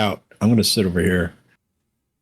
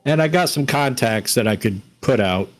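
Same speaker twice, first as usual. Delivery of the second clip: put-on Bronx accent. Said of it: "talking with a Bronx accent".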